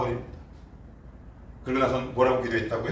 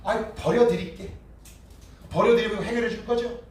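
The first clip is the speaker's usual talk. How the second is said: bargaining; 9 semitones higher than usual. Retold or imitated. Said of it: "무슨 얘기일까요".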